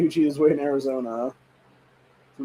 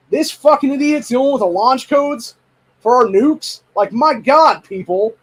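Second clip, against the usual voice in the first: much higher and louder, near-yelling outrage; furious shout; 8 semitones higher, 5 dB louder than usual. Real, not acted. Raging to viewers about the launch codes, shouting. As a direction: yell it at the top of your voice. Rant peaks on nukes.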